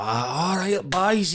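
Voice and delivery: high, breezy entrance greeting; Paddy McGuinness. Retold or imitated. TV host walking into the green room, high hearty greeting. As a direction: imitate a TV host hailing the lads. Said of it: "Paddy McGuinness comes walking in".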